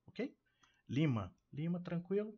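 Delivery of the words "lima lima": "Lima" stressed on LI; first syllable stressed. Shown as a demonstration. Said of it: "primeira sílaba tônica". ("Lima" com tônica na primeira sílaba)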